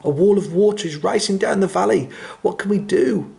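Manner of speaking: high, urgent squeaky giraffe. A narrator's reading. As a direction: call the warning in a high squeak. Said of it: "in a surprisingly squeaky voice".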